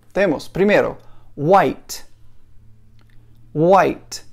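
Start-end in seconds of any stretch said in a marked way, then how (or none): 1.4-4.3 "white" said slowly and clearly, wajt, for learners to repeat; model for repetition. Shown as a demonstration. Teacher says each word for the class to repeat, clear and steady. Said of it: "eu vou falar e você repete comigo".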